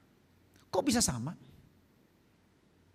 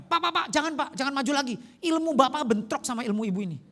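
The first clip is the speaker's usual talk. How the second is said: retold urgent plea, pitched up; urgent warning; 4 semitones higher, 3 dB louder than usual. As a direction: mimic an alarmed translator holding him back. Translator warns him in retold scene. (peringatan mendesak)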